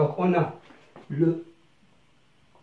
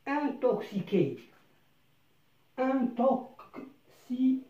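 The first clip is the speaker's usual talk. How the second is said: "intoxiqués" stretched very slowly, syllable by syllable; slow syllable read; 5 semitones higher, much slower than usual. Shown as a demonstration. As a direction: spell out "intoxiqués" in slow motion. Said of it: "لنقرأها مع بعض".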